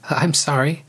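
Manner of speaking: a touch of gentle amusement on the apology; through gentle laughter. A narrator's reading. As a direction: apologize with a hint of held-back laughter. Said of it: "said through her gentle laughter".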